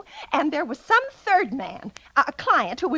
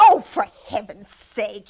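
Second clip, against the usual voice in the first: slow, louder exasperated outburst; 7 semitones lower, 5 dB louder, slower than usual. Acted. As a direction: drag it out in disgust. Exasperated at red tape.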